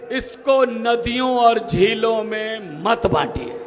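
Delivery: slow, weighty closing verse; slow final line. Shown as a demonstration. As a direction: draw out the last line slowly. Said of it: "line बोलूंगा". (धीमी ठहरी हुई आख़िरी पंक्ति)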